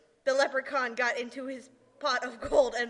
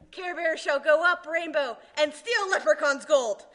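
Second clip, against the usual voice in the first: laughing scheme; 3 semitones higher, 3 dB louder than usual. Acted. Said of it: "laughs while scheming".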